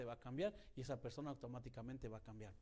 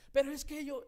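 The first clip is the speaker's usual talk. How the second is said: grito imitado; 13 semitones higher, 15 dB louder than usual. Retold or imitated. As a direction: mimic the lady's sudden shout, much higher and louder. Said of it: "La señora gritaba". (grito de clienta enojada, mucho más agudo y fuerte)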